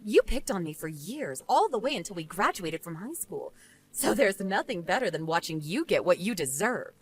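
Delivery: understated dismissive woman; unsympathetic rebuff. Acted. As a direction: coolly refuse the blame. Jane enjoys her revenge.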